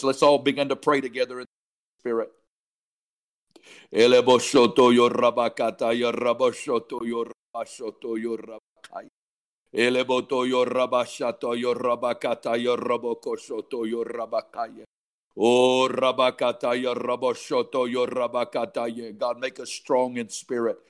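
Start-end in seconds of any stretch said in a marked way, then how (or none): 3.9-14.8 rhythmic flowing glossolalia, fading at phrase ends; praying in tongues. Real, not acted. 15.4-19.1 rhythmic flowing glossolalia, fading at phrase ends; praying in tongues. Real, not acted.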